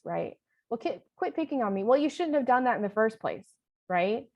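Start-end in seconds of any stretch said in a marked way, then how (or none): 0.7-3.5 scolding parent voice. Shown as a demonstration. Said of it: "jump into parent voice".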